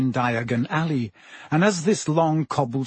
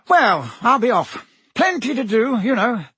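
jovial Minister voice; 9 semitones higher, 4 dB louder than usual. A narrator's reading. Fudge voiced by narrator.

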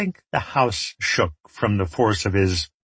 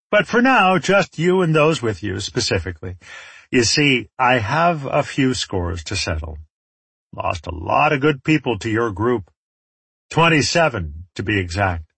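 lightly voiced warlord with a score to settle; menacing villain; 2 semitones higher than usual. Enemy leader lists his losses to the trapped group, menacing.

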